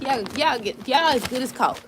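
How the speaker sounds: tripping over the words; stammering, restarting the phrase; stuttering. Real, not acted. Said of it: "I'm stuttering and stuff".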